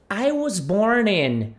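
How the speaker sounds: slow "I was born in." run together; linked words. Shown as a demonstration. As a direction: join "was born in" smoothly. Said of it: "Veja como a gente junta aqui". ("I was born in." com as palavras ligadas)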